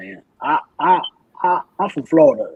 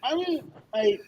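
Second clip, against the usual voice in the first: hesitant mock rapper voice, slightly raised; 2 semitones higher than usual. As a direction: mimic a rapper fumbling for words. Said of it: "Lil Baby be like".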